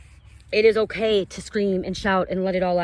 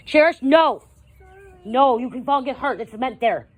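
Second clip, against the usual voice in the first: yelling across the room; 5 semitones higher, 4 dB louder than usual. Real, not acted. Mom calling out to child playing.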